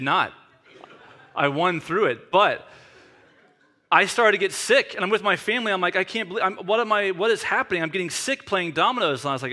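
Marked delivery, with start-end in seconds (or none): 6.0-9.2 higher-pitched retold disbelief; mock bewilderment. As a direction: act out baffled dismay, pitched up. Retells his dismay at getting sick.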